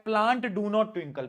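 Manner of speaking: very slow spaced reading of the question. Shown as a demonstration. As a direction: read it like a dictated question.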